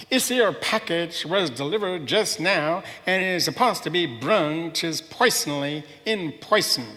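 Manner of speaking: slow, garbled bumpkin voice; village idiot. Acted. Catarella garbles a report to the chief, slow bumbling. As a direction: mangle the words like a simple villager. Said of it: "Catarella's the sort of village idiot".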